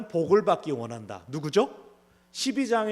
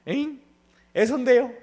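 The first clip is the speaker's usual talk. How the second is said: confused; 6 semitones higher, 7 dB louder than usual. Acted. Esau confused answering.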